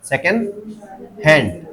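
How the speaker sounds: सेकंड held up, pause, हैंड stressed and falling; stress on second word. Shown as a demonstration. Teacher showing second word takes it, stress on हैंड. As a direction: pause after सेकंड, then land on हैंड. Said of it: "सेकंड word पे आ रहा है".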